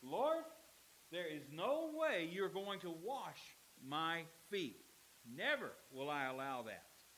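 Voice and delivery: slow, emphatic refusal as stubborn Peter; flatly refuse, word by word; insistent. Acted. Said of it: "But Peter is insistent".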